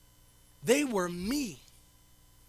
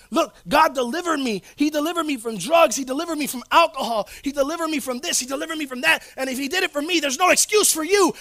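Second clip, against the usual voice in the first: boastful testimony; 4 dB louder than usual. Retold or imitated. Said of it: "I was saying".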